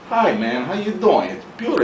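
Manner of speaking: soft, laid-back acted hello; mellow greeting. Imagined relaxed people greeting each other, acted mellow ease. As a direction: greet gently, totally relaxed.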